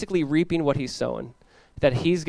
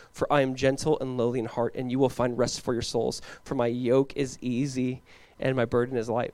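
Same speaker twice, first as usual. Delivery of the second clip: softer, lower, soothing reading; quiet, lowered voice of comfort; gentle reassurance; 4 semitones lower, 5 dB quieter than usual. Acted. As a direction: ease down into a gentle invitation. Jesus's gentle invitation, read softly.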